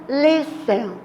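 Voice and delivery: "Listen" with the opening syllable stressed; stress on first syllable. Shown as a demonstration. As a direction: lean on the start of "Listen", let the end fall. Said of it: "Olhem que a sílaba tônica tá iniciando".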